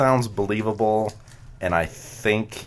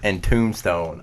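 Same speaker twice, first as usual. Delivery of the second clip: indignant complaint; 4 semitones higher, 11 dB louder than usual. Real, not acted. Complaining about unfair questions.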